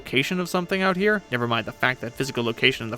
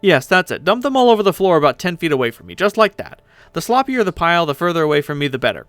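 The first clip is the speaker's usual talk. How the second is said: loud, raised-pitch instructions; bossy directing; 3 semitones higher, 6 dB louder than usual. Acted. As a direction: call out orders to an underling. Directs someone dumping the maps.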